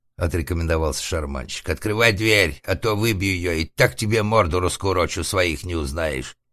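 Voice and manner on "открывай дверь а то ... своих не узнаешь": lightly voiced rough bully at the door; threatening organ grinder. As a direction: threaten with some force. Шарманщик грозит через дверь. (грубоватая угроза шарманщика)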